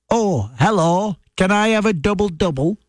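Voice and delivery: put-on strong northern English accent. Ordering coffee at a Tim Hortons drive-through, in a broad northern English accent. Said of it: "when I'm in a drive-through at a Tim Hortons and I say".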